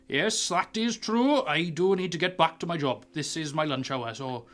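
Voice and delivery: put-on a proud old sea dog on his lunch break; dragonborn wharf master. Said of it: "And he's like".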